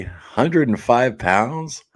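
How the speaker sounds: slow, drawn-out astonished question; amazed disbelief. Real, not acted. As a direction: stretch it out like you can't believe it. Reading a viewer's weight in disbelief.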